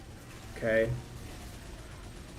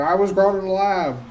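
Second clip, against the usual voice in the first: lightly voiced cheerful candidate; mock lab-grown candidate; 3 semitones higher than usual. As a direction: play the proud lab-grown guy lightly. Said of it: "it's like".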